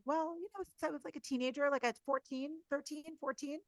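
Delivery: quoting a client. Retold or imitated. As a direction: lightly play the shy client owning up. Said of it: "And she'll quite often say".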